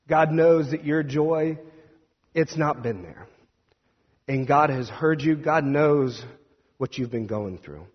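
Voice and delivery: emphatic, measured word from God; retold prophetic encouragement. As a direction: proclaim comfort with growing emphasis. Retells prophet's word to grieving woman.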